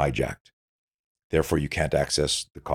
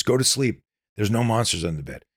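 soothing parent; 6 semitones higher than usual. Retold or imitated. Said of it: "we do that with our kids".

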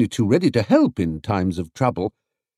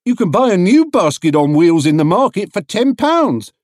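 stallholder voice, higher and louder; a helpful trader chiming in, pitched up; market stallholder; 10 semitones higher, 6 dB louder than usual. A narrator's reading. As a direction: market trader advising the bear, lightly voiced. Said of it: "chimed in another stallholder".

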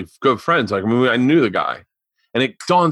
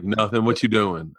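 lightly imitated friend, lower and softer; Derek; 4 semitones lower, 5 dB quieter than usual. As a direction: toss it off as the low-key caller. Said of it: "I did his voice".

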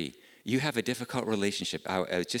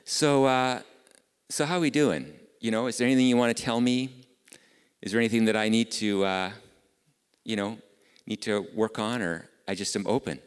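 raised, high, quick father's question; lightly voiced eager dad asking his son; father asks his son how they're doing, loud and fast; retold question to son; 3 semitones higher, 5 dB louder than usual. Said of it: "and I ask Tyler".

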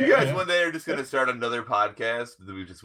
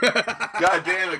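drawn-out, slow mock "God damn it", higher; imitating Dylan's catchphrase; 9 semitones higher, 4 dB louder, much slower than usual. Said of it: "I say "God damn it" a lot".

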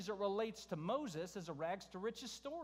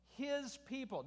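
"his" set off and pitched higher in "his people"; emphasis on HIS; 5 semitones higher, slower than usual. Real, not acted. Preacher pointing out whose people they are, stressing "his". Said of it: "Notice that".

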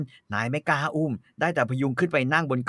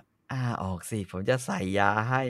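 gentle; 4 semitones lower, 6 dB quieter than usual. Acted. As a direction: coax her gently. Master speaks gently.

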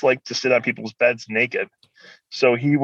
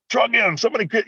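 yelling through door; 12 semitones higher than usual. Retold or imitated. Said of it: "I'm yelling through, through the door".

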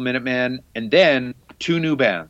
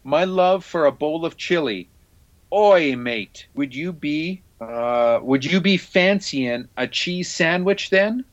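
a hammed-up stab at a Cockney accent, higher; rough Cockney accent, a touch higher; attempted Cockney accent; 4 semitones higher, slower than usual. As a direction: try the line again as a Londoner, badly. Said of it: "reading those run out grooves in a, a Cockney accent".

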